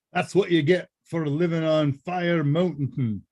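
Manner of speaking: slow, lightly put-on Scottish Irish lilt; a hint of Scottish Irish brogue, drawn out; Scottish Irish accent. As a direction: tease the chat in a half-hearted Scottish Irish accent. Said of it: "I don't know why I'm doing Scottish Irish".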